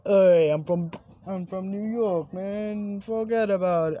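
rough attempt at a New York accent. Vlogger trying out a New Yorker, in a put-on New York accent. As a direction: have a go at sounding like a New Yorker. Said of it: "how do you want New York?".

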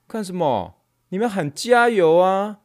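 put-on high, loud rebuking old official; scolding elder. Old official scolds students for not chanting back, angry. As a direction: scold the class like a stern elder.

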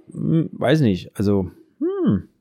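slow, drawn-out hesitant hum; thinking hmm. Real, not acted. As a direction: muse slowly, unsure. Zögerndes Nachdenken über Account. (nachdenkliches, langgezogenes Hm)

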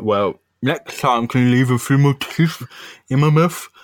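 light mumbled toothless voice; beaten-up man's mild plea; toothless victim. Acted. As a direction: talk through a mouth missing teeth. Voicing the beaten villain talking toothless.

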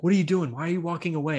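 lightly imitated irritated questioning; retold annoyance. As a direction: imitate someone kinda pissed off. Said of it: "he was kinda pissed off".

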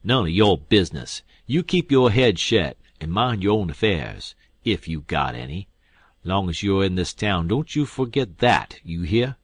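loud furious scolding; ripping out angrily. Acted. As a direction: bite the boy's head off. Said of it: "The King whirls on me and rips out".

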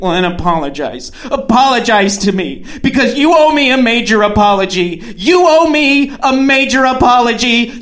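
hammed-up upset, rising in pitch as it builds; mock crying. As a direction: imitate someone wailing for an apology. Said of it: "She starts crying".

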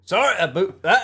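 put-on Scottish accent; mock Scottish. Co-host tries Scottish on request, mock Scottish accent. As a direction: apologize like a cartoon Scot. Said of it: "Uh, Scottish?".

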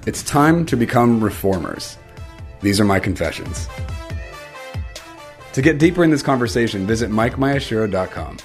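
measured podcast trailer read with weighted pauses; scripted intro read. Acted. Host confessing to listeners he lacks all the answers, scripted intro read. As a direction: deliver it as a scripted opening confession.

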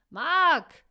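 a long, high, falling call of his name; loud call. A narrator's reading. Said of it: "rief sie ihm laut nach".

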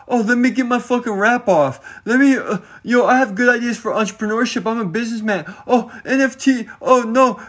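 mock a self-styled entrepreneur bragging about ideas; mocking wannabe businessman. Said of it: "Oh, it's about".

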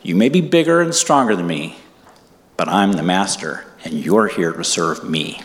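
stern, slowing to a low finish; commanding, sternly measured; sternest voice. Retold or imitated. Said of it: "I say in my sternest voice".

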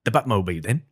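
loud British actor impression; Michael Caine. Guest does his university party piece, Michael Caine voice. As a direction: put on the British film star's accent, punched out. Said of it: "the one that my friends used to ask me to do".

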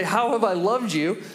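mock annoyance, reminding them of all that was done; annoyed God. God answering the Israelites' ungrateful question, imagined as annoyed. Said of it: "I expect God to be annoyed".

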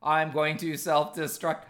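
slow stiff robot voice; monotone machine delivery. Pretend. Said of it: "but you're doing a robot voice".

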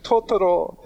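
imitating a lilting Italian "Totoro"; Italian accent. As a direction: say it with a hint of her Italian accent. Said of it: "the way she says it in her Italian accent".

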